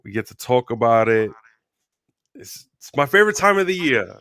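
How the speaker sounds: talking through a sore throat; strained voice from a sore throat. Real, not acted. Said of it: "excuse my, my voice".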